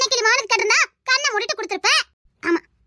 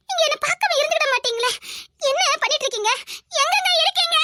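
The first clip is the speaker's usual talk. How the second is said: pleading, climbing high at the end; desperate calling; 5 semitones higher than usual. Acted. Woman pleading for her missing man, desperate calling. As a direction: call out for him with rising desperation.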